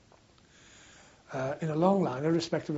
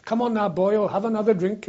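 imitated pub invitation, louder and higher; hearty urging; 5 semitones higher, 7 dB louder than usual. Welsh locals press a soldier to drink, hearty and raised. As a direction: lightly act out a hearty local offering drinks.

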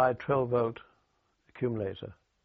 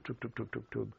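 imitated engine putter; 8 dB quieter than usual. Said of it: "a little two-stroke engine".

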